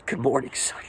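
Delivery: soft, hushed fatherly greeting; quietly imitating a father's greeting; Father's tender greeting. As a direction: gently voice a loving father. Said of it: "And he was speaking to me that morning".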